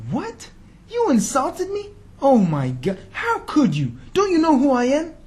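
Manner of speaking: high, loud, indignant shock; hammed-up offended ego; mock outrage. Imagined offended leader.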